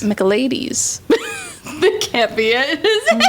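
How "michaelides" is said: Michaelides as mick-uh-LAY-deez, falling at the end; echoed pronunciation. Shown as a demonstration. Host trying out co-host's guess, Michaelides with LAY. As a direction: repeat Michaelides with LAY in the middle.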